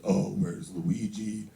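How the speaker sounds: slow, drawn-out taunt in dad's voice; mock taunt, dragged out low; dad quoting a teaser. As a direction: imitate dad slowly mimicking a bully. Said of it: "That's how he talks".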